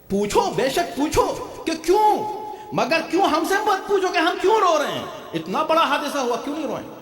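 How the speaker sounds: high-pitched exhortation; fervent sermon delivery, pitched high; impassioned preaching. Real, not acted. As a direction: challenge the crowd in a high preacher's cry. Preaches at full force.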